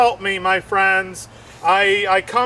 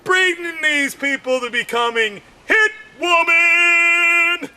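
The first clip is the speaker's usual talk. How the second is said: worked-up rant; 6 semitones higher than usual. Acted. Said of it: "I'm like".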